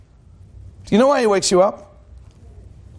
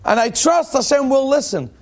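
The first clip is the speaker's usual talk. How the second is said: calm self-reassurance; 4 semitones higher than usual. Retold or imitated. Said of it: "how much am I supposed to let go and tell".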